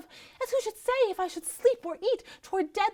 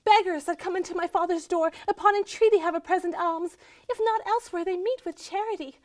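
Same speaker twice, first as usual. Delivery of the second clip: raised pitch, aggrieved railing; indignant complaint; 4 semitones higher, 4 dB louder than usual. Acted. Starved wife railing at her husband's spite, indignant.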